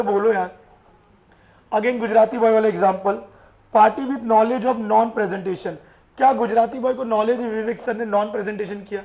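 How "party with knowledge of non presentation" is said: slow dictation. Shown as a demonstration. Teacher slowly dictating the rule to students. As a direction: dictate it so the class can write.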